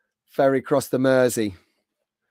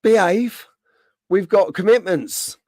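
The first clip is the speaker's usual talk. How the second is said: retold protest; 6 semitones higher than usual. Speaker to recruiter about the opening date, retold high-pitched protest. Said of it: "I said".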